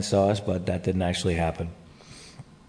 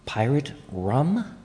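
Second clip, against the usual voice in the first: slow, puzzled rising question; surprised question; 4 semitones higher, 3 dB quieter, much slower than usual. Real, not acted. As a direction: ask it in disbelief. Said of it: "What is that?".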